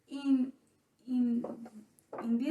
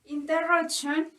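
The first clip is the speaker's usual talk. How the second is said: "interruption" with the weight on RUP; stress on the root. Shown as a demonstration. Teacher modelling stress on the word root. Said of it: "the sound will go to the root".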